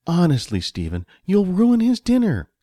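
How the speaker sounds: high, mildly scolding voice; exasperated wife. A narrator's reading. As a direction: chide the husband in exasperation.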